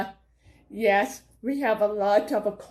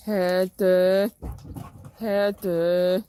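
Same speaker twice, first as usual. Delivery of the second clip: hypnotic calling. Pretend. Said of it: "mind trick".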